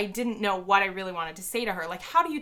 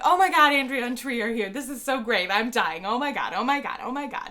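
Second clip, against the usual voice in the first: freaking out; 4 semitones higher, 5 dB louder than usual. Retold or imitated. Fans freaking out at news.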